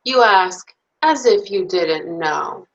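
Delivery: put-on lively, expressive bedtime story read to little kids; reading to children. Reads picture book to children.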